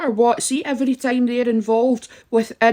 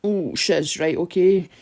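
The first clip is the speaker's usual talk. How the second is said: mock sudden respect; 2 semitones lower than usual. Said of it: "Then they start to go".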